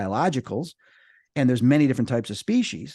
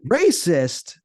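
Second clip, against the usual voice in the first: gnome voice; 5 semitones higher, 4 dB louder than usual. Retold or imitated. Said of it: "that kind of a voice".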